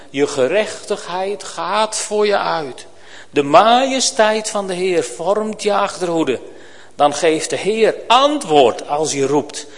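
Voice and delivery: solemn reading of a Bible passage; a steady pulpit reading; scripture reading. Acted. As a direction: read the prophet's words to the congregation. Reads Isaiah 58 aloud.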